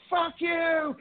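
very high yelled curse; retold screaming. Boy running out cursing the principal, high retold scream. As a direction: scream it back over your shoulder. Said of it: "I'm screaming".

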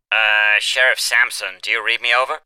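over a crackly radio; radio officer calling in; crackly military radio. A narrator's reading.

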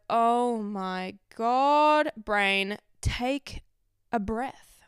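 drawn-out, exasperated "oh my God"; exasperated plea. Acted. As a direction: plead slowly with your own brain. Exasperated plea to own brain.

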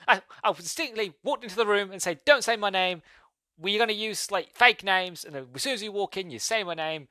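high-pitched mock telling-off; exasperated scolding. Brother reminding David about the fake names, acted exasperated scolding. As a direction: imitate someone aggrieved spelling out the obvious, pitch held high.

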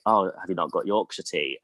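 imitating a Manchester mum; strong Mancunian accent. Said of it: "in her very, like, strong Mancunian accent".

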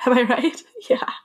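whispered, conspiratorial question; playful whisper. Real, not acted. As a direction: lean in and whisper it to the listener. Playful aside to listeners.

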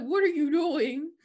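half-laugh at his nerve; laughing disbelief. Retold or imitated. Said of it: "And she's like".

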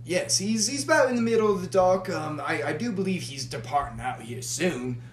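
lightly voiced Australian barkeep, friendly; casual Australian accent for the bar patron. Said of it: "You went from Scottish to Australian".

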